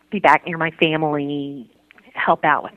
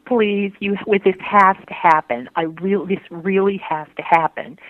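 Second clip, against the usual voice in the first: re-enacted begging, pitched up and pressing; retold pleading; 4 semitones higher than usual. Woman recalls begging God for what she wanted, retold pleading. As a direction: plead as if recalling a desperate prayer. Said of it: "I begged, I pleaded".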